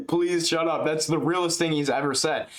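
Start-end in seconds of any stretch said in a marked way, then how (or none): 0.1-0.8 laughing echo. Retold or imitated. Echoing Makhachev.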